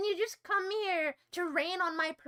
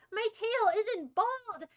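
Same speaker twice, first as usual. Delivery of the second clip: higher, drawn-out protest, stress on "tail"; slow indignant; 5 semitones higher, much slower than usual. Acted. Streamer defending her tail to chat, slow and offended. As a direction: insist slowly that the tail is fine.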